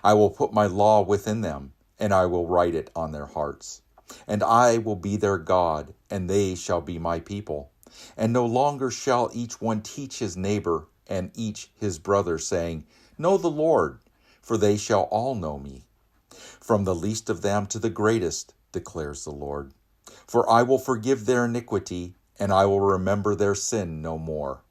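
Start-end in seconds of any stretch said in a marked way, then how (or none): 0.0-18.5 loud, high, ringing proclamation; forceful liturgical reading; proclaiming scripture. Acted. God's words in the Jeremiah reading. 20.3-24.6 loud, high, ringing proclamation; forceful liturgical reading; proclaiming scripture. Acted. God's words in the Jeremiah reading.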